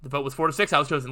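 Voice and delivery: reading narration and lightly voicing each character; visual novel reading. A narrator's reading. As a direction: read the game scene aloud, lightly acting. Reads visual novel aloud.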